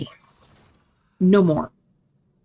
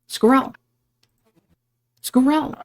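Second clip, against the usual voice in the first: calling out; 6 semitones higher, slower than usual. Acted. Calling out to missing friend.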